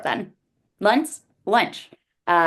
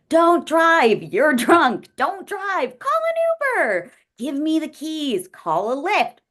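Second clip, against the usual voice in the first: frantic, much higher and louder pleading; mock frantic pleading; 7 semitones higher, 3 dB louder than usual. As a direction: replay your panicked shouting at the drunk client, pitch climbing. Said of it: "You should have heard me trying to stop him".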